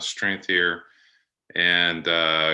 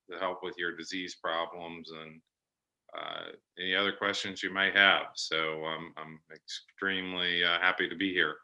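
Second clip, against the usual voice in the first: muffled speech after wisdom teeth removal; 5 dB quieter than usual. Real, not acted. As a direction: talk through a sore, muffled mouth. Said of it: "I sound a little muffled this morning".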